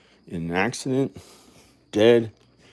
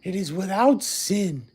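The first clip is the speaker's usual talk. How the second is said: high, very slow, drawn-out preacher intoning; mock the preacher's solemn delivery, stretching each word; hammed-up pulpit voice, high and slow; imitating a preacher; 7 semitones higher, 5 dB louder, slower than usual. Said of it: "He said".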